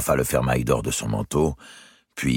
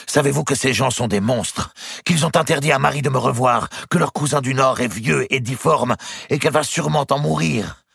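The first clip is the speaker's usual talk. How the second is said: high-pitched, urgent outpouring; indignant young lover; 12 semitones higher, 4 dB louder than usual. Acted. Nephew denouncing the girl's family to his uncle, indignant. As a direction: pour out the outrage, pitched well up.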